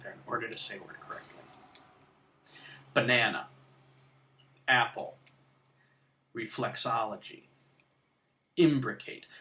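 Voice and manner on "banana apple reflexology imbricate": "Banana, apple, reflexology, imbricate" one by one, each stressed syllable punched; long pauses between "Banana", "apple", "reflexology", "imbricate"; syllabic stresses. Shown as a demonstration. Teacher giving examples of syllabic stress, clearly stressed syllables. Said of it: "Those are all syllabic stresses".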